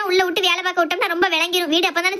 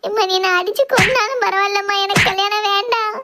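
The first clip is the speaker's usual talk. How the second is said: tearful pleading. Acted. Daughter begs her mother to call off the wedding, tearful. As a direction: beg mother, dragging out the words. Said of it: "தரையில படுத்து அழுதுட்டு கிடக்கா".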